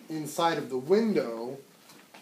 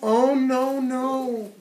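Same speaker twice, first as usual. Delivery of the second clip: high, alarmed refusal; the little fly crying out no to the spider; frightened little fly; 11 semitones higher, 8 dB louder, much slower than usual. Acted. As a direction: pull back in alarm, voice jumping up.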